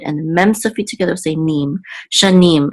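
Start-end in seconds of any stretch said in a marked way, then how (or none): 2.1-2.7 "shanim" said sha-NIM with the weight on "nim"; stress on last syllable. Shown as a demonstration. Teacher reading the Torah word aloud, final syllable stressed. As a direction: land the stress on the end of "shanim". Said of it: "the accent mark is on the last syllable".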